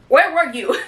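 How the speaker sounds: real fangirl scream at a favourite author; excited yell. Real, not acted. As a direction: burst out at the book you missed. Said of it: "Why am I screaming?".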